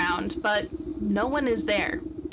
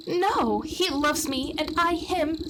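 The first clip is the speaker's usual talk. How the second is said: put-on higher, earnest young maiden; 5 semitones higher, slower than usual. Maiden defending her lover to the witch, higher earnest voice. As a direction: insist on his love. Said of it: "says the maiden".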